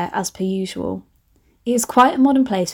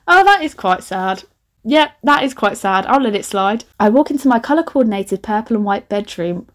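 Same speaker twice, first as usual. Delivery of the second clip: ordinary talk, nothing marked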